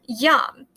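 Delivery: "yum" opened with a clear Y glide; I as consonant. Shown as a demonstration. Teacher pointing out initial consonant I, Y-sound "yum". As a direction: start "yum" on a Y sound, said deliberately. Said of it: "notice how I said yum".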